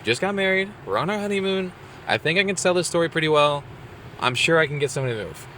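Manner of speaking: upbeat inner pep talk. Retold or imitated. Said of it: "I was like".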